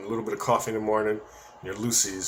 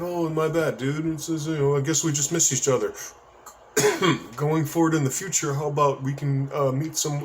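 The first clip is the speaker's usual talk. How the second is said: polite, higher-pitched retold apology; smooth it over professionally, pitched up; diplomatic apology; 4 semitones higher than usual. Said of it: "I was very professional".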